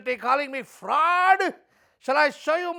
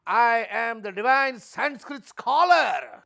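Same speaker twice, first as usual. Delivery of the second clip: pompous proclamation; slower than usual. Acted. Fake scholar proclaims grandly.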